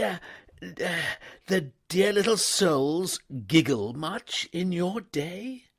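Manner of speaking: astonished at the valet's past; surprised upper-class gent, loud and high; startled young toff. A narrator's reading. Wooster startled, then curious.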